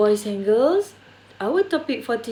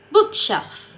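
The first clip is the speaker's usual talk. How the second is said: BOOK in "bookshelf" pitched high; stress on BOOK; 9 semitones higher than usual. Shown as a demonstration. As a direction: lean on the first part of "bookshelf", let shelf fall. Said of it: "place the stress on the first noun".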